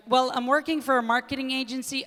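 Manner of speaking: lightly voiced white girl, rising lilt; a hint of a breezy young American woman; mock white girl chatting. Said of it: "I don't know why she's white".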